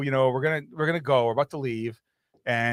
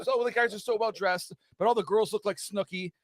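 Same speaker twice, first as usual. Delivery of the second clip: mock Irish gush; 7 semitones higher than usual. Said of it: "now they start".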